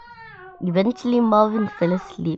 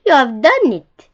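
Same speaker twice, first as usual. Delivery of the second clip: high, loud congratulation; jubilant shout; 6 semitones higher, 8 dB louder than usual. A narrator's reading. Wise old beetle praises young beetle, jubilant shout. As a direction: shout your congratulations, pitched up. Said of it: "shouted the wise old click beetle".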